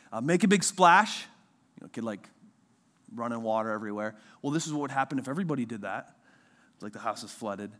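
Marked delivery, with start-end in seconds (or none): 0.2-1.3 slow, drawn-out storybook reading. Retold or imitated. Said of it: "the book goes like something like this". 4.4-6.2 quick storybook payoff. Retold or imitated. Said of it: "the book goes like something like this".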